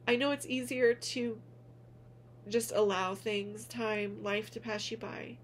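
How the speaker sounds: pushing through real tears to finish the thought; emotional. Real, not acted. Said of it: "I wasn't expecting to get emotional".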